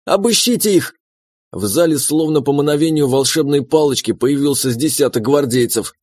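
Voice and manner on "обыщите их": high, shrill command from the wife; shrill order. A narrator's reading. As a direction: bark the search order up high. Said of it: "заорала Серафима". (высокий визгливый приказ обыскать)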